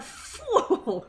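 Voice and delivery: screamed fool. Shown as a demonstration. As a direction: scream "Fool!" like a cartoon villain. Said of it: "They just scream out".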